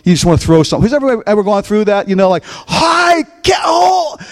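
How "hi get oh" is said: stifled outburst. Retold or imitated. Pastor nearly swears at broken guitar.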